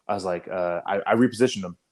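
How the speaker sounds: ordinary talk, nothing marked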